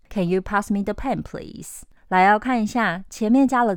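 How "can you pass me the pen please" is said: polite request. Shown as a demonstration. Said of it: "怎么样才会满分".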